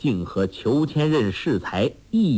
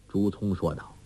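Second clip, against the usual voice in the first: ordinary delivery, nothing marked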